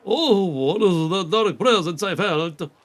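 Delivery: a hint of an old mystic sensing darkness; seer voice. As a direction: intone it like a portentous seer. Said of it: "a different voice for him".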